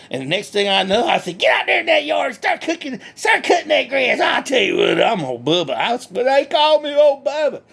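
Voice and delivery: lightly voiced country hick, cheerful and boastful; redneck Bubba. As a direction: play a proud backwoods redneck bragging. Bubba tells his story.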